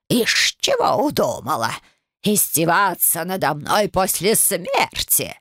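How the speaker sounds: slow, wheezy scolding of a brat; a nasty old ghost hissing at the girl; wheezing old crone. Acted. Ghost great-grandmother scolds. (прабабка сипло бранит правнучку)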